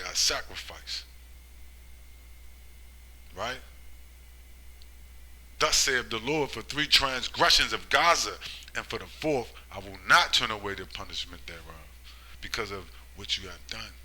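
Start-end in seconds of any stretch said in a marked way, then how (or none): 5.6-13.9 scripture reading. Acted. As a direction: proclaim the verse like a prophet. Reads Amos a third time.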